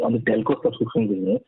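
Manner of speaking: usual speaking voice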